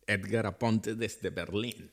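slow, suave spy self-introduction; James Bond style. Acted. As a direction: say your name like a secret agent. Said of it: "decir tu nombre estilo Bond".

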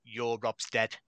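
imitated Cockney doctor; Cockney accent. Doctor speaks to Rob's dad, imitated Cockney accent. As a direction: say it as a misheard Cockney, "dad" turning into "dead". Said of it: "in a Cockney accent, it sounded like".

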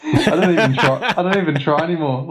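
laughing through an embarrassed confession. Real, not acted. Admitting to a friend he gave up, laughing. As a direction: chuckle the words out. Admitting he doesn't try Spanish.

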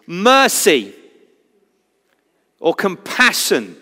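high mock cry for attention; retold crying out. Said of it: "he screams out for his attention".

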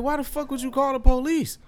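very high-pitched disbelief; mock-incredulous comeback; retold incredulity. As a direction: question it in exaggerated, high astonishment. Retold incredulous reply to driver.

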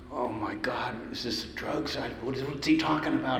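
hushed, nervous inner voice; retold scared thought. Young music director puzzling over Ray's drink, mildly scared. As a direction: softly act out a private worry. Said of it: "I'm scared to death".

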